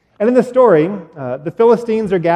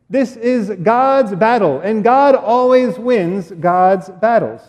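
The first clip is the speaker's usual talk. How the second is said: slow, steady declaration; a hint of a solemn young hero; earnest declaration; 3 semitones higher, slower than usual. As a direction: proclaim it calmly with conviction. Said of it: "He approached Goliath and said".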